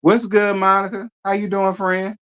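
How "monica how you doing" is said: ordinary talk, nothing marked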